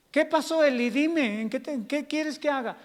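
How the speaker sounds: high-pitched puzzled answer; acted servant reporting for duty; Samuel. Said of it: "como Samuel".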